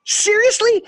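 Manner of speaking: squeaky high disbelieving "seriously"; high-pitched mock disbelief at the salesman; incredulous laughing. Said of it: "I'm, like, laughing".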